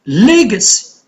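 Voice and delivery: "Legacy" with LE stressed, then falling; LE-ga-cy, weight up front in "Legacy"; stress on first syllable. Shown as a demonstration. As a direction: punch the LE in "Legacy". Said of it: "it's on the first".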